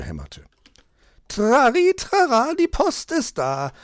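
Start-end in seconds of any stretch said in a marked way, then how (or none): 1.3-3.7 high, loud sing-song call at the door; bright high post call from outside. Acted. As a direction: announce the mail like a cheery postman. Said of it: "rief es von draußen".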